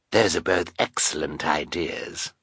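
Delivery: butter her up; oily Count Olaf. Acted. Olaf flatters Carmelita.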